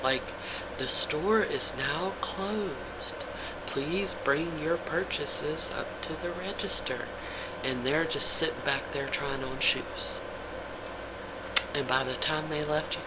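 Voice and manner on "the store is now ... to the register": store announcement. Retold or imitated. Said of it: "he kept doing the announcement".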